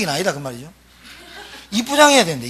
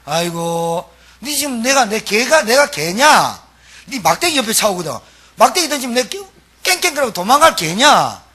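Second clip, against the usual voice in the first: indignant Gyeongsang taunt, raised and louder; Goliath scoffing in Gyeongsang dialect, a touch louder; 4 semitones higher, 3 dB louder than usual. Retold or imitated. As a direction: bristle like an insulted Gyeongsang brawler. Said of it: "경상도 말로".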